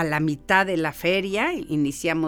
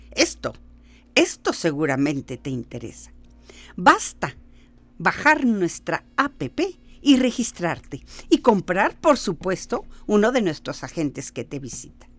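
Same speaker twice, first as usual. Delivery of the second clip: pushy salesman pitch. Acted.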